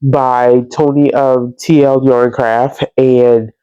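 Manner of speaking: stuffy nose, breathing through the mouth; blocked nose. Real, not acted. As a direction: talk with a blocked nose from a cold. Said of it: "I can't breathe through my nose".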